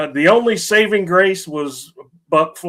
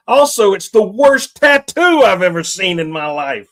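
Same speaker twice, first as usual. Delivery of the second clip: louder, emphatic outrage; exasperated rant; 3 semitones higher, 6 dB louder than usual. Real, not acted. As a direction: vent loudly about an awful movie. Ranting about a hated movie.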